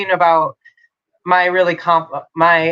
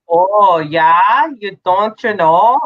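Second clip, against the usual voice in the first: hammed-up Aussie "oh yeah, you know"; own accent demo; 4 semitones higher, 5 dB louder, much slower than usual. Shown as a demonstration. Showing friends how to mimic her Aussie accent, hammed-up. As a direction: show how easy your accent is to copy. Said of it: "to mimic my accent is really easy".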